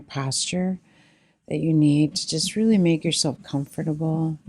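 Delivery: calm, settled meditation voice with long pauses; guided meditation. Real, not acted. Leader settling meditators into their posture and breath, calm guiding voice. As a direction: guide listeners gently into stillness, unhurried.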